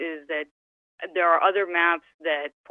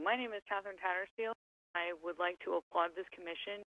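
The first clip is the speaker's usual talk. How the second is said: faint, distant phone voice; speaking away from the mic; too far from phone; 13 dB quieter than usual. Real, not acted. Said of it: "could you please speak closer to the microphone".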